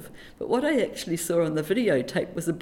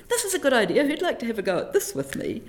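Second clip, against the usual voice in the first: eager invitation; 6 semitones higher, faster than usual. Retold or imitated. Retold pitch to colleagues.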